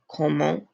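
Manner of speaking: "comment" opening on a hard K. Shown as a demonstration. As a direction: hit the C of "comment" as a K sound. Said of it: "how it's that K sound".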